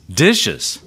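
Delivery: mock-incredulous son, pitch leaping on the word. Son home from college answers dad's request to do dishes, incredulous. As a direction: echo it back in disbelief.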